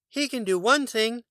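high, light bird voice. A narrator's reading. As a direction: chirp it sweetly. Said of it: "The bird said".

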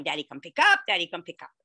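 retold joyful yelling; mild mock yell. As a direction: repeat it gleefully like a kid. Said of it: "He was yelling".

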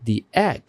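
the egg, "the" said as dee; "the" as thee. Shown as a demonstration. Teacher showing students "the" said as thee. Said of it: "এটির উচ্চারণ হবে দি".

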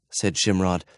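ordinary delivery, nothing marked

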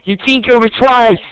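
high-pitched outraged yell at his teammate; real fury, voice jumping up high; real furious yelling. Real, not acted. Raging at the teammate who team-killed him twice, high furious yell.

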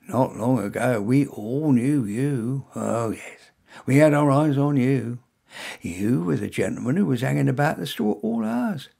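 a hint of a knowing security man closing in; smug store security guard. Guard confronting a suspected shoplifter, lightly voiced and gloating.

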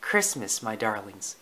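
soft, mildly warm mother voice; smiling answer. Acted. Lady answers her puppies, softly smiling. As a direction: say it gently through a smile. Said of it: "Lady answered with a smile".

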